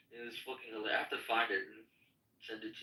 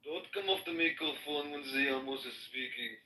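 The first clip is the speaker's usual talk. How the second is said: Amos impression. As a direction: play the self-important Amos. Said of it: "always speaks in the third person".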